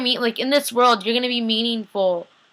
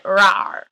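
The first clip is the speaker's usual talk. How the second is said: playful vampire "rawr"; mock growl; 4 dB louder than usual. Recapper acting out the vampire's neck bite, mock growl. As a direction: imitate a vampire pouncing to bite.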